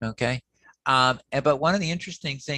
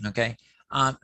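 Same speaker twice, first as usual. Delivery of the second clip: ordinary talk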